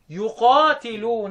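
drawn-out Quranic recitation of one word; slow recitation. Shown as a demonstration. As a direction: stretch the word as in tilawa. (ترتيل بطيء للكلمة)

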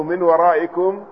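"من ورائكم" as min waraa'ikum; i in "من" and after the hamza of "ورائكم"; kasra reading. Shown as a demonstration. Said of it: "بكسر الميم". ("من ورائكم" بكسر الميم)

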